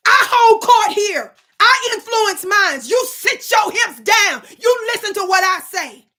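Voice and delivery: loud, slow, commanding; booming preacher-style command; spirit-driven shout. Real, not acted. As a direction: lay down the law to the chat. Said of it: "That was my spirit that attacked".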